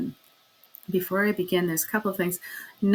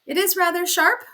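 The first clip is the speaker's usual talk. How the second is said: grimly; 11 semitones higher, 5 dB louder than usual. Acted. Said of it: "said Miss Meadows grimly".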